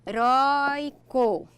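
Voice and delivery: "heróico" slowly sounded out in separate chunks; syllable by syllable. Shown as a demonstration. Teacher presenting a word to divide, syllable by syllable. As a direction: stretch each syllable of "heróico" apart.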